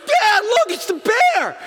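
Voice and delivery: put-on very high, loud thrilled child shout; a son shouting as mama bear appears; shouting kid. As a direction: yell it like an excited boy.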